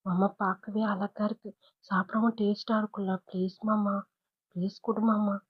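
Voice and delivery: a hint of a little girl begging softly; soft pleading. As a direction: coax him gently for the sweet.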